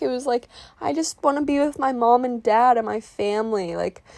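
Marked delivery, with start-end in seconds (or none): 0.8-3.7 put-on higher, pleading childlike whine; lightly acted tearful plea; mock sobbing. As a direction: plead like a homesick kid, imitated. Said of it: "like, sobbing at night".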